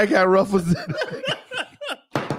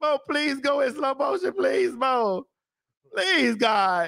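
hysterical laugh; 5 semitones higher, 4 dB quieter, slower than usual. Real, not acted. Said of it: "Why are you laughing so hard?".

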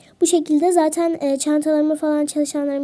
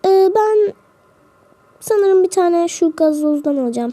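pretend passenger; 4 semitones higher, 4 dB louder than usual. Plays passenger ordering.

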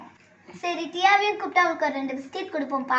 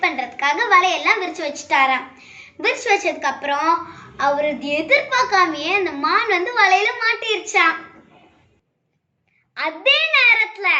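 lively, lilting story narration; storytelling to children; 4 dB louder than usual. Acted. Sister telling a proverb story to the children, lively. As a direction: tell a fable to the little ones.

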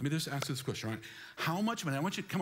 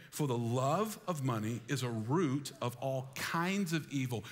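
read aloud slowly. Shown as a demonstration. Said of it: "Say this with me".

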